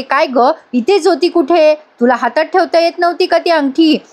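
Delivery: mildly acted telling-off; retold scolding. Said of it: "उगाचच ओरडते बयोवर आणि म्हणते".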